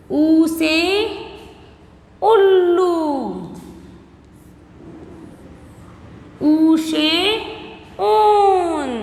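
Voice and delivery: slow, drawn-out letter-and-word drill; alphabet recitation. Shown as a demonstration. Teacher drilling young pupils in Hindi vowels, slow recitation. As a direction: stretch each vowel for a class to repeat.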